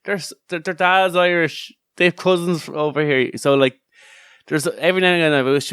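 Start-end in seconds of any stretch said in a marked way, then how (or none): 0.0-3.3 higher, keen voice; lightly acted excited claim; eager mock claim. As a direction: grab them for Ireland eagerly. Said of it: "So we go".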